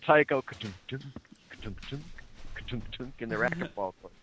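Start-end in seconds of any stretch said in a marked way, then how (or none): 0.4-3.1 soft rhythmic ka-tunk; hushed bouncing-ball noises; imitated ball bouncing. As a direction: quietly mimic a racquetball bouncing. Imitates racquetball sounds.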